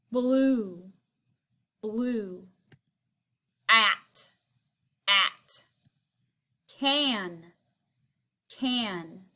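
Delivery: kindergarten teacher voice. Shown as a demonstration. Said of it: "What's this word?".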